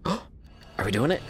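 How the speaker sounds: hushed, slow, breathy disbelief; breathless gasp. Real, not acted. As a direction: gasp it out in awe. Excited at game moment.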